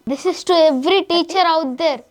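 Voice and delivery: slow, deliberate declaration of hidden rage; mock rage speech. Boy acting out his anger at teachers, slow and pointed. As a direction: drag each word out like a simmering threat. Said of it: "కొట్టేలా ఉన్నాడు".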